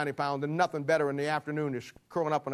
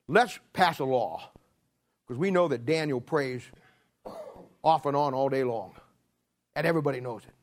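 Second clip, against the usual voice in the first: conspirators plotting; 3 semitones higher, 3 dB louder than usual. Acted. Conspirators plot against Daniel.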